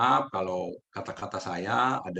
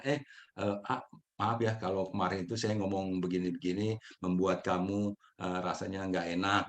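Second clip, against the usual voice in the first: softer, sincere apologetic explaining; gentle apology; 2 semitones lower, 3 dB quieter than usual. Shown as a demonstration. Apologizing to A about the misunderstanding, soft sincere tone. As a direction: apologize kindly, no offense meant. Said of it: "Sebaiknya minta maaf aja".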